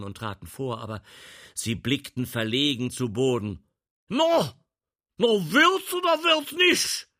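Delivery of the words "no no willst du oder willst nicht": sharp loud demanding call; laut rufend. Acted. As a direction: call it out, impatient and high. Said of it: "rief Leopold". (ungeduldiger lauter Ruf)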